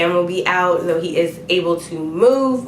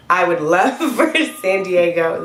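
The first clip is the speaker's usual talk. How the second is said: laughing. Real, not acted. Laughing through coughing fit.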